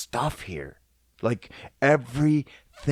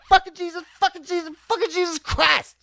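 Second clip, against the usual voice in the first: much higher, bright happy cursing; in happiness; 14 semitones higher, faster than usual. Shown as a demonstration. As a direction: curse like you just won big. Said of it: "And you can say it in happiness".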